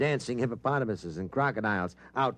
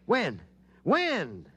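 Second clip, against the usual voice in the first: each When? pitched higher than the last; growing urgency; 4 semitones higher, much slower than usual. Acted. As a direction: push harder with every repeat, impatient. Reporter impatient for the answer.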